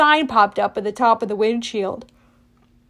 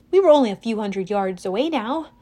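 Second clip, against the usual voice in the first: ordinary delivery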